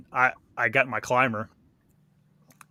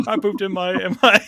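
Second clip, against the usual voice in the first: high, slow, imitating a crying kid; crying confession; 9 semitones higher, 5 dB louder than usual. Retelling his boyhood confession to grandpa, imitating tearful crying. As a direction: wail it out like a little boy caught. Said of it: "started crying".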